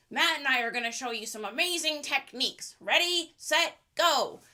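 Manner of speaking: lightly voiced nerdy kid presenter; a hint of nerdy video host; nerdy larper. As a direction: present to camera like an earnest cosplay nerd. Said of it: "That was my nerdy impression".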